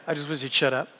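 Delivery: a quiet, muttered afterthought. Real, not acted. Repeated aside, muttered softly.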